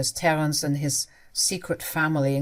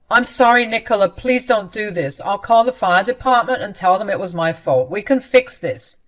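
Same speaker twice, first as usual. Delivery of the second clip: pleading; 3 semitones higher, 7 dB louder than usual. Acted. Husband pleads with wife.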